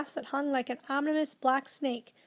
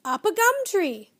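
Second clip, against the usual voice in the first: high, loud shrieking bird call; bird screaming; 8 semitones higher, 6 dB louder than usual. A narrator's reading. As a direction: screech it like a frantic bird. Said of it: "The wiffle bird flew into the air and screamed".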